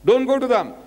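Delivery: scornful command. Retold or imitated. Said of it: "He's telling his disciples".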